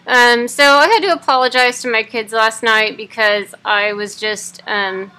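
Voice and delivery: talking through clenched teeth; jaw wired shut. Real, not acted. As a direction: speak with teeth held shut. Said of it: "day fourteen of having my jaw wired shut".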